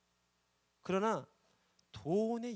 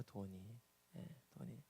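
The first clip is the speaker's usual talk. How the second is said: soft echo; 3 semitones lower, 11 dB quieter, slower than usual. Shown as a demonstration. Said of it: "돈이 문제예요".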